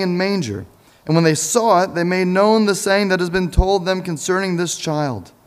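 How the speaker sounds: measured, lifted reading voice; scripture reading. Acted. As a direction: read the Gospel to the congregation. Reads scripture passage aloud.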